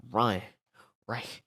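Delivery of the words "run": a touch louder urgent run; short mock urgent call; retold run. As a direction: hiss out a quick run. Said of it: "He said".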